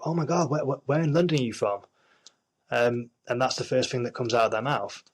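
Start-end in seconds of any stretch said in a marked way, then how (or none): 0.1-1.8 lightly mocked American reaction, slightly raised pitch; mimicking gushing Americans. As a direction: imitate an American reacting to a British accent. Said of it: "So Americans, when, when Americans hear".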